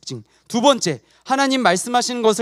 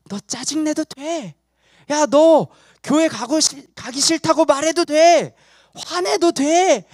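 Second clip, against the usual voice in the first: higher, drawn-out urging of a tempter; sin tempting; 5 semitones higher, slower than usual. Acted. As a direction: egg them on as personified sin. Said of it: "우리 속에서 죄가 막 할 때". (부추기는 죄의 목소리 연기)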